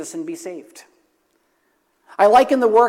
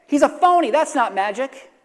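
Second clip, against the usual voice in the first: preacher's mock parrot heckling the magician; squawking parrot yell; 6 semitones higher than usual. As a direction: screech it like an indignant parrot. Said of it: "the parrot would yell".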